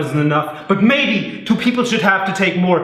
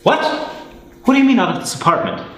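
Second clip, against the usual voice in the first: shocked question; 7 semitones higher, faster than usual. Acted. Husband shocked fast question.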